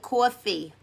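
New York "coffee" with a rounded first vowel; "coffee" in a New Yorker's accent. Shown as a demonstration. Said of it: "I'm a New Yorker. I gotta say it".

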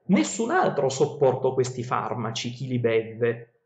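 slow, measured reading of ancient verse; epic verse reading. Acted. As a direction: read the verses like a storyteller. Reads Odyssey verses aloud.

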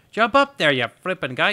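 loud, high yell at the game. Real, not acted. Gamer yelling at the character to jump. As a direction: shout it up at the screen.

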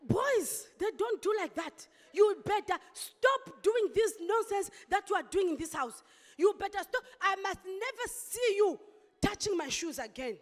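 retold scolding. Mother scolding son in story.

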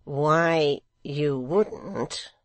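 mild, drawn-out question; mildest tones. A narrator's reading. Secretary probing Hugh, in mildest tones. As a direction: ask it mildly, lingering on the words. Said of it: "in his mildest tones".

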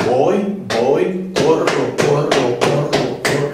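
de "Voy" por pulso a "corro" en dos sílabas por pulso; duplicar el tempo. Shown as a demonstration. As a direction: pasa de caminar a trotar recitando. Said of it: "duplico el tempo". (recitado rítmico que dobla el paso)

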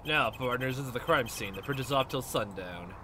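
a hint of a Texas cowboy laying down the law; Texan accent. Player voicing a cowboy detective at the crime scene, mild Texan accent. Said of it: "Time to get my Texas, Texan accent".

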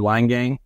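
Leingang said as "line gang"; first syllable of Leingang rhymes with "fine"; mispronounced name. Real, not acted. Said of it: "I think we mispronounced that".

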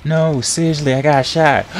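no really, I mean it; insistent. Real, not acted. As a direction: repeats it with rising urgency. Insisting, being shot in game.

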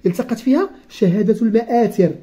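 slow, careful reading of a textbook passage; reading aloud. Acted. Teacher reading the lesson text slowly to the child. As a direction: read each word out slowly for the pupil. Rereads the phrase.

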